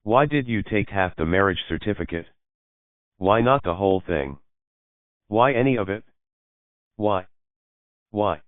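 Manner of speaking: rising to a near-squeak of anguish. A narrator's reading. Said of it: "rising up to a pitch so high".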